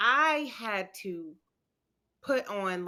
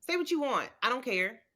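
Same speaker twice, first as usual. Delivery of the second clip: a higher, defiant brush-off; tough defiance; 4 semitones higher, faster than usual. Retold or imitated. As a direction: shrug it all off, acting tough. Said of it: "and I'm like".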